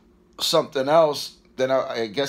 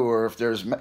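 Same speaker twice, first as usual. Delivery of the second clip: hiccups. Real, not acted. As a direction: cut off by a hiccup. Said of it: "excuse me".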